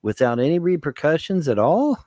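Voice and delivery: mock incredulous question. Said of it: "and I'm like".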